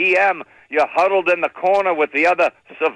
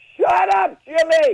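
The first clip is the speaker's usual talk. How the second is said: shrill, very high-pitched yelling; 11 semitones higher than usual. Retelling a phone call where she yelled: imitating someone yelling. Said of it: "she's yelling at me on the phone".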